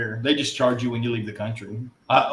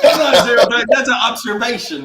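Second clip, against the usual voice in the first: louder, higher protest; husband defending his remark, louder; defensive; 10 semitones higher, 10 dB louder than usual. Real, not acted. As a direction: insist it's fair, voice up. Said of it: "God bless".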